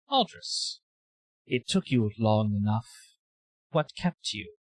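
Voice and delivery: eerie many-voiced entity, lightly voiced; a calm, knowing alien greeting an old friend; faceless creature voice. Creature addressing Aldris, a touch of eerie amusement.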